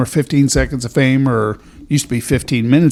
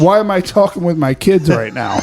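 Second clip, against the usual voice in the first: mock exasperated shout. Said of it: "That's what Tom's saying".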